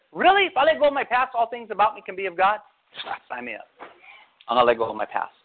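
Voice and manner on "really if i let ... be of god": surprised question. Retold or imitated. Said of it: "I remember when the Lord showed me that, I said".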